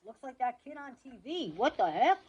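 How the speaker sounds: a hint of a gruff cop; lightly voiced gruff policeman. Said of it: "A gruff cop voice".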